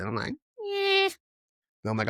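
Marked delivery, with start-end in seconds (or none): 0.3-1.1 reluctant groan. Retold or imitated. His own reluctant reaction.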